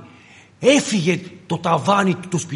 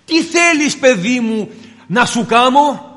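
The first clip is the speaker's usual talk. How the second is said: tender repeat; 6 semitones higher, 6 dB louder than usual. Acted. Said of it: "ρώτησε αυτόν, λέγον".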